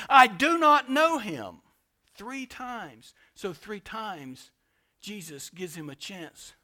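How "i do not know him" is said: loud, slow, emphatic denial; Peter. Retold or imitated. Preacher voices Peter's last denial of Jesus, loud and emphatic. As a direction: raise pitch and volume, hammering out each word.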